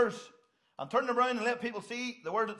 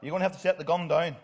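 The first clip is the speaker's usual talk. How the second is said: stern officer calling out to a gunman; policeman's command. Retold or imitated. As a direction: order him to drop the weapon like a cop. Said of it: "That's what the policemen say".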